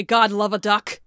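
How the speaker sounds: laughing quote. Retold or imitated. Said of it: "she used to say".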